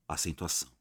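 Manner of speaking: normal talking voice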